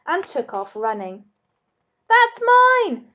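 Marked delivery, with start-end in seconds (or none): 2.1-3.1 high, loud possessive yell; king of rubbish yelling after the dog; furious shout. Acted. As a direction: scream it like a madman. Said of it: "Ernest shouted".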